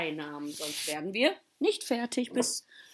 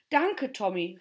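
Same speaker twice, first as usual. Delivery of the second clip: louder, lightly called thanks; calling out; 5 dB louder than usual. Acted. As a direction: call your thanks to the host. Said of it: "riefen die letzten Gäste".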